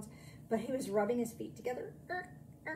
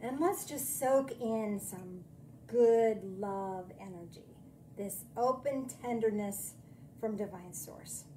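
guided meditation. Acted.

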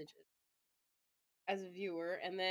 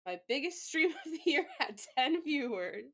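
laughing at herself; 6 semitones higher, 5 dB louder than usual. Real, not acted. Laughs at own small stats.

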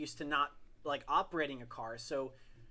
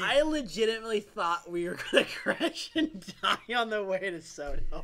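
loud, higher, worked-up retelling; animated recollection; 4 semitones higher, 8 dB louder than usual. Real, not acted. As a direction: retell the scare at high volume. Recalling his panic in the car.

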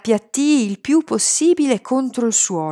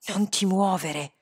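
hissed warning; 7 dB quieter than usual. A narrator's reading. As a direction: hiss it sharply to hold him still. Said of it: "sibilò".

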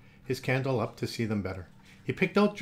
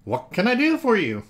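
Goofy; 8 semitones higher, 8 dB louder than usual. Acted. Goofy sheriff speaks.

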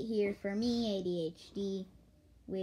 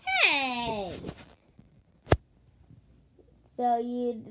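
gloating guard character; 2 semitones higher, 4 dB louder than usual. Acted. Guard catches a tunneler at the studio, gloating.

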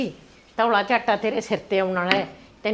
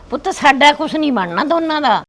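higher, louder crying words; tearful plea; 6 semitones higher, 6 dB louder than usual. Acted. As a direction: break into tears as you say it. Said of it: "ਤੂੰ ਰੋਣੀ ਕਿਉਂ?". (ਰੋਂਦੀ ਹੋਈ ਦਾਦੀ ਦੀ ਫ਼ਰਿਆਦ)

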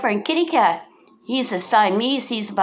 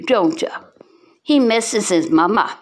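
whisper. Real, not acted. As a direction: hush it tenderly. Whispering to cat.

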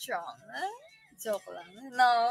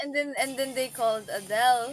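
usual speaking voice

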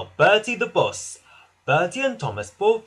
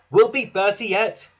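louder, higher confident rallying; rally the engine with resolve; lightly voiced encouraging driver; 5 semitones higher, 5 dB louder than usual. A narrator's reading.

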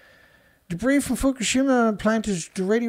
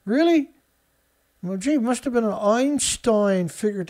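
sarcastic; 2 semitones higher than usual. Acted. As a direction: scoff at the obvious. Sarcastic reaction to obvious headline.

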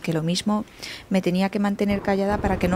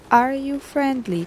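higher, slow machine-translator English; stilted text-to-speech question; Google Translate voice; 4 semitones higher, much slower than usual. Shown as a demonstration. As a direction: speak like translation software, word by word. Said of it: "Como Google Translate".

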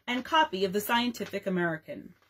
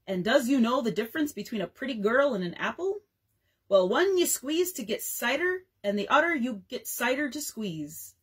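minstrel show voice; 2 semitones higher than usual. Acted. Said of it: "played the parts of both the Messrs. Jones and Bones".

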